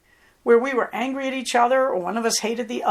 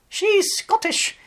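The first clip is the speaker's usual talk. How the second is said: slow and high, playfully proud; high mock Scottish claim; 10 semitones higher, slower than usual. Real, not acted. Vlogger teasing about her Scottish collie, playful high drawl. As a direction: stretch it out, teasing yourself. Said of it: "I know".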